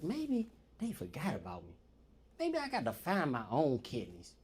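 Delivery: softly scheming; petty mutter. Retold or imitated. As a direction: mutter it to yourself.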